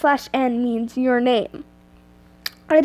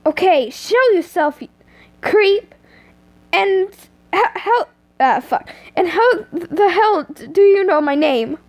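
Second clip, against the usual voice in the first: mildly angry challenge, raised pitch; angry, trying to sound tough; 5 semitones higher than usual. Acted. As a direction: demand it with stumbling bravado. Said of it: "You said angrily, trying to sound tough".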